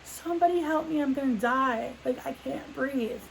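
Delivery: high-pitched plea for help, not at full scream; retold panicked scream.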